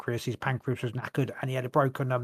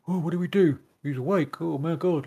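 mildly panicked imitation, pitch raised at first; mock panic; 4 semitones higher than usual. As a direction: act out flustered staff caught off guard. Acted quote of panicked hospital staff.

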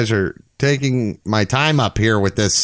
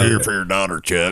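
raspy voice; 3 semitones lower than usual. Retold or imitated. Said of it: "That raspy voice that he loves".

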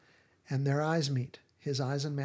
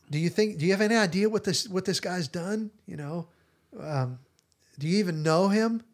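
fast, higher, louder pleading; agitated protest; 4 semitones higher, 4 dB louder than usual. Retold or imitated. Simon trying to stop Jesus choosing Matthew, fast agitated protest. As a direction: talk him down in a rush.

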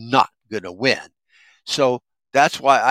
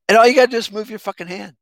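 exasperated; 10 semitones higher, 4 dB louder, faster than usual. Real, not acted. Exasperated punchline after the mock.

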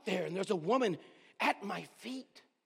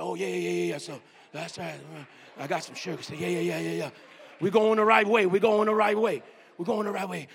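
joyful shout; 5 semitones lower, 6 dB louder than usual. Retold or imitated.

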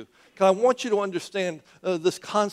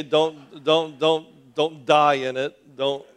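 lifeless mumble; 5 dB louder, much slower than usual. Shown as a demonstration. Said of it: "say it like you mean it".

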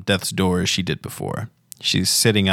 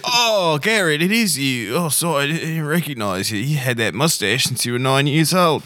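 high, swooping character voice; delighted Pavilion; 6 semitones higher than usual. Acted. Pavilion recognizes Garrett by his mustache, high and delighted. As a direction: greet a long-known youngster in a high voice.

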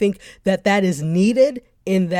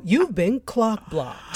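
slowly, deliberately "clock blocked"; careful phrasing; slower than usual. Shown as a demonstration. Co-host retries a dangerous phrase, carefully. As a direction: pick through "clock blocked" word by word.

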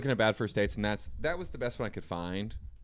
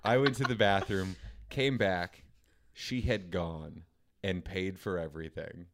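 measured read-aloud storytelling; deliberate storyteller delivery; story narration; 3 semitones lower, slower than usual. A narrator's reading. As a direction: read it out like a solemn short story. Finishes reading the story aloud.

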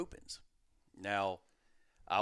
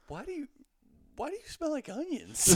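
much higher, laughing through the wife's words; laughing wife quote; 5 dB louder than usual. Retold or imitated. Husband quotes his teary pregnant wife, laughing and high. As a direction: quote her while cracking up. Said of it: "She's like".

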